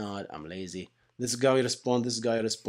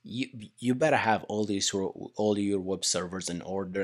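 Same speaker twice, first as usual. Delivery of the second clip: normal talking voice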